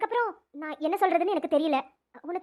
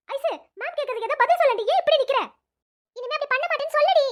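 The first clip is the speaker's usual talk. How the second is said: pleading; 7 semitones higher, 4 dB louder than usual. Acted. Friend begging girl to answer.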